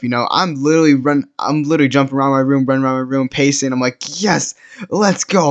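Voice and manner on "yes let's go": hyped-up mock yell. Teen retelling how he celebrated her reply, hyped mock yell. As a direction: re-enact a hyped yell, pitched way up. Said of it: "yelling it, like".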